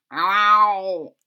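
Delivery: loud drawn-out yowl; cat yowl. A narrator's reading. Mother Cat yowling at the skunk.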